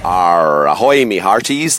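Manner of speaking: hammed-up pirate growl; pirate greeting, lightly put on; dodgy pirate voice. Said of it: "with a really dodgy accent".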